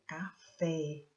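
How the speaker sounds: "café" drawn out on the final "fé"; stress on FÉ. Shown as a demonstration. Teacher showing pupils the strong syllable, stress on the end of "café". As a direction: stretch the last syllable of "café". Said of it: "a sílaba tônica é a sílaba forte".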